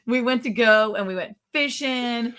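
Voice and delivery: lightly put-on Texan twang, drawn out; Texan accent. Shown as a demonstration. Carrying on the trip story on request, mock Texan accent. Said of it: "Can you say that in a Texan accent".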